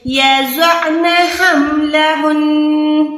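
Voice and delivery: یضعن with the عین from mid-throat and the نون held long; tajweed demo from the throat; throaty ain. Shown as a demonstration. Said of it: "عین کو حلق کے درمیان سے نکالیں".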